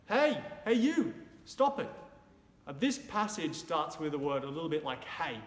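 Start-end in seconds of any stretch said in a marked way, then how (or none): 0.1-1.9 high, loud "Hey, hey, you, stop it"; mock yell. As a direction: shout after the toilet-paper thief. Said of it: "You would yell".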